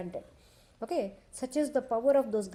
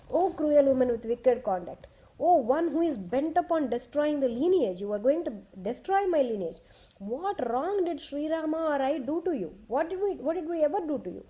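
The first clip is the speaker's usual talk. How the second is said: angry rebuke; 3 semitones higher than usual. Acted. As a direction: hurl the accusations at her. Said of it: "Now he is talking in his anger".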